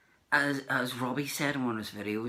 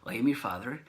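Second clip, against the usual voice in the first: a put-on Dave Prowse West Country accent, a bit louder; 3 semitones higher, 6 dB louder than usual. Fan imitates Dave Prowse's accent to him in a louder put-on voice. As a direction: quote the film line in a hammed-up Dave Prowse accent. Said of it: "I'm gonna do it in this accent".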